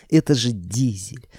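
slow stunned whisper. A narrator's reading. Clerk whispering to Koschei about his dead dog. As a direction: breathe it out in shock.

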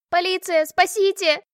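high, loud shriek for help. Acted. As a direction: shriek in panic. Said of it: "верещала я". (визг о помощи)

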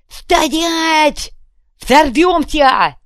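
high, loud, slow threatening roar; yelling threat. Acted. Kuvalda threatening the crowd with a grenade, yelling. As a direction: scream the threat, grenade in hand. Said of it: "и завопил".

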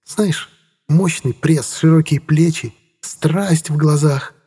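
very slow, dreamy drawl; dreamy teasing. A narrator's reading. Inga teasing Khromov about her young lover, dreamy and slow. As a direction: linger over each word, mock-swooning. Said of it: "Она мечтательно взмахнула ресницами".

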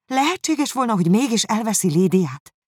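high, disbelieving question; amazed. A narrator's reading. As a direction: still reeling, voice up high. Elizabeth stunned by the letter. (magas, hitetlenkedő kérdés)

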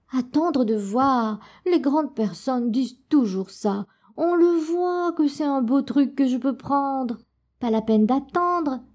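mild mock grumble from a cross child; a hint of sulky protest; displeased cry. Adèle protests to her grandfather, mildly cross. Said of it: "cria très mécontente Adèle".

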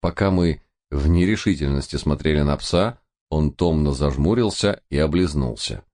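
plain reading voice

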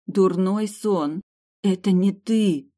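stunned, can't believe him; shocked. A narrator's reading. Girl in shock before the mercenary, stunned. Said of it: "потрясённо пробормотала я".

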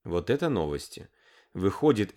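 usual speaking voice

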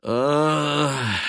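короткий высокий всхлип; выдохни с болью; горестный вздох-всхлип. A narrator's reading. (горестное «ах» со всхлипом)

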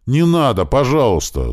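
whimpering plea. A narrator's reading. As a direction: beg not to be hit. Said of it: "заскулил Михайлов". (жалобно, с поскуливанием)

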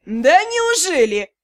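slow, drawn-out sarcastic retort; mock her excuse with heavy irony. Yurao answers Dei's excuse, sarcastic. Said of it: "Сарказм был налицо".

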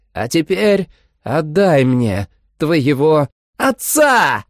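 furious vampire shout; vampire scream. A narrator's reading. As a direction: roar the demand. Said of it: "Она закричала так громко".

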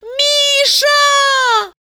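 high, loud call of his name; young woman calls after the man walking away, a loud high cry; shouting after him. A narrator's reading. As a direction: call Misha across the park. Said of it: "с криком".

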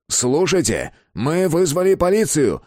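high, pressing threat; high-pitched bluffing authority. A narrator's reading. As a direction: call out a warning to someone hiding. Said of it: "снова попытался Безил".

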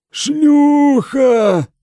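high drawn-out howl; howled word. A narrator's reading. Mad monk howling at the king's hall. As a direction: wail the word like a madman. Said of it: "простонал Годвин".

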